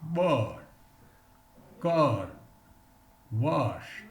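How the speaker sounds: "bird, curd, washed" said slowly, one at a time; long er drill. Shown as a demonstration. Teacher modelling the long vowel for students, careful drill. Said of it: "Just we can pronounce this".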